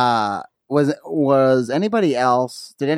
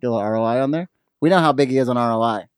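a little muffled, words running together; slightly slurred; 3 semitones lower, faster than usual. Real, not acted. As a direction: slur the words a little, lower voice. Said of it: "slurring your words a little bit".

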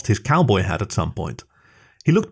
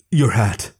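gasping. A narrator's reading. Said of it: "he gasped".

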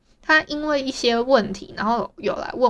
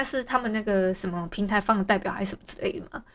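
whispered aside; 6 dB quieter, faster than usual. Real, not acted. Bemused aside to herself.

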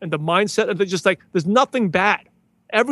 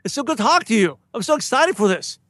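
friendly, upbeat hello, slightly higher; long lost friend greeting; 3 semitones higher than usual. Shown as a demonstration. Networker greeting a new contact by phone, friendly and eager. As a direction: greet them like an old friend. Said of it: "the initial words, it's kind of like a, a, what I say, the long lost friend".

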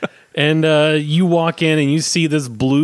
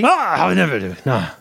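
Pagli's odd voice. Acted. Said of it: "is that how he talks?".

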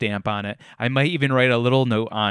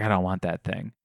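flat refusal; 5 semitones lower, 6 dB quieter than usual. Retold or imitated. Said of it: "And I was like".

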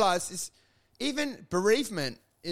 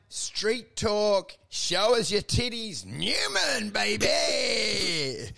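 shouted name, big announcer swagger; hype shout; 2 semitones higher, much slower than usual. Pretend. To the co-host, announcing Sam Newman with a hype shout. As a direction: bellow it like ringing in a champion.

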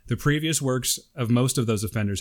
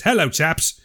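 mock British, lightly put on; hammed-up British greeting; bad British accent; 3 semitones higher, 4 dB louder, slower than usual. Reading a UK listener's letter, bad British accent. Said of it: "this really bad British accent".

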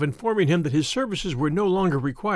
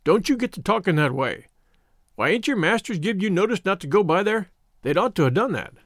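lightly voiced, admonishing old shepherd; old country shepherd; 2 semitones higher than usual. Shepherd scolding scouts about going near the field, mildly admonishing. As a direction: scold a little in mild country dialect.

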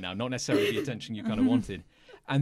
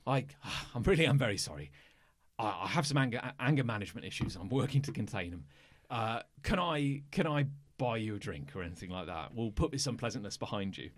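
a hint of lower, softer apologetic bruiser; lightly voiced sheepish bruiser; 3 semitones lower, 3 dB quieter than usual. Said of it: "he goes".

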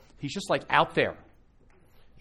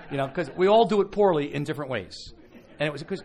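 laughing; 5 semitones higher, 9 dB louder than usual. Real, not acted. Laughing at the joke.

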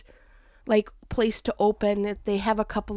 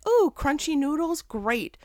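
fake cheerful; 5 semitones higher than usual. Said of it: "I'll be like".

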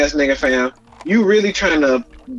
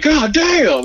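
imitating Preacher Foley; 12 semitones higher than usual. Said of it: "when Preacher Foley went in the scene".

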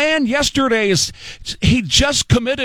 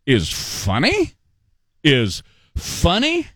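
incredulous; 4 semitones lower, slower than usual. Real, not acted. Host outraged at the laughter.

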